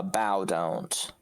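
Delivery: usual speaking voice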